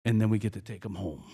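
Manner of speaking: low-pitched child aside, imitated; little buddy. Buddy adding a last word for the visitor, low imitated aside. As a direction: chip in low, as a deadpan afterthought. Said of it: "his little buddy next to him quickly said".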